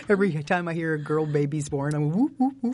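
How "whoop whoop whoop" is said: high whooping cheer; excited cheering. Retold or imitated. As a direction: whoop it up like a fan. Cheering at news of girl births.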